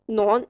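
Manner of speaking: "नॉन" starting straight on n, no k sound; silent K. Shown as a demonstration. Teacher giving the past participle, "नॉन" with silent k. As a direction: say "नॉन" for known with the k left silent. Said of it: "वो pronounce तीनों में ही नहीं करना".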